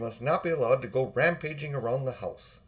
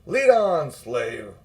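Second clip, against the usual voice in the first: commanding witch; 7 dB louder, much slower than usual. A narrator's reading. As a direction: command him like a slave. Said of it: "said the witch to Uncle Andrew".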